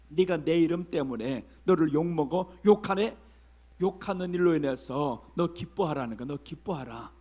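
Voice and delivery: tender. Acted. Voicing Jesus consoling.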